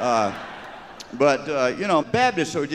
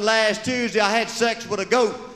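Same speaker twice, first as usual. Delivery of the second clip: confessing sinner; 9 semitones higher than usual. Acted. Congregant confessing in church.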